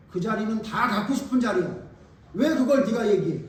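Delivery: loud, indignant outburst; acted jealous anger. Jealous disciple confronting a rival over the seat, acted anger. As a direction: burst out at the rival, loudly offended. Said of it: "이런 마음으로 여러분 화가 난 거예요".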